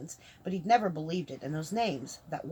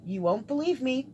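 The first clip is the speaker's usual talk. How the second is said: higher, lightly teasing; enjoying this; 7 semitones higher, 4 dB louder than usual. A narrator's reading. Mage about to reveal who he is, mildly relishing it. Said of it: "enjoying this".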